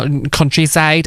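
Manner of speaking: countryside drawn out in a Northern Irish accent. Shown as a demonstration. Podcast guest correcting a word into their native accent, Northern Irish accent. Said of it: "in my Northern Irish accent".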